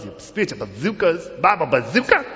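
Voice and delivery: loud, playful bazooka boast; hammed-up weapon hype; mock bravado. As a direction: blast it out in mock swagger. Mocking spiritual weapon bravado.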